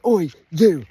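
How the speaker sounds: hammed-up oi shout; mock shout. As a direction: call out the cow like a bloke picking a fight. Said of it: "And I just went".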